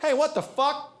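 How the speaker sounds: sudden high outraged squawk; guy yelps as his beer is swiped; indignant yelp. Retold or imitated. A guy at the bar yelps at the woman stealing his beer, high and outraged. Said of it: "He's like".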